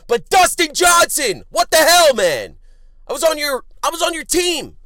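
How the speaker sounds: yelling high and loud at the golfer; furious shout. Real, not acted. Podcaster yelling at the golfer who blew his bet, furious shout. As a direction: bellow it at him, betrayed and livid. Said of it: "I'm losing it over here".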